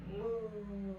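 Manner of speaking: half-laughing moo for the cow pose; lightly done moo. Pretend. Yoga teacher repeating cow cue, amused moo.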